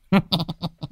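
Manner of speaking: soft greedy snicker; sly chuckle. Acted. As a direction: chuckle under your breath at the fish. Cười thèm cá. (cười khúc khích tham ăn)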